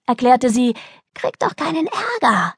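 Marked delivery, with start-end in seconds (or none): 1.1-2.5 put-on high-pitched, self-justifying girl; childlike protest. Girl defending her made-up swearwords, high and insistent. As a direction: argue it as an obvious truth.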